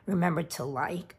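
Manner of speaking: speech cut by a hiccup. Real, not acted. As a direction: say it mid-hiccup. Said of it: "I got the hiccups".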